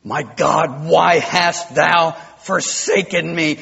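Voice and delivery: rising, slowly building cry of a forsaken man; a man nailed to a cross crying out to God; anguished cry. Shown as a demonstration. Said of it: "That's how it has to be said".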